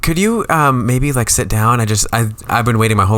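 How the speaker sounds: high, hesitant ma'am could you; politely nervous concertgoer asking; timid fan. Pretend.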